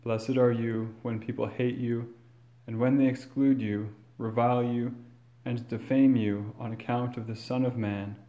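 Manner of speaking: measured, solemn proclamation; formal gospel reading. Acted. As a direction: read it like scripture at Mass.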